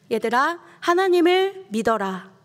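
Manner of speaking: 하나님을 믿어라 called out high and loud as a firm order; commanding. Shown as a demonstration. Preacher showing Jesus ordering the disciples, loud command. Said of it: "명령형이죠".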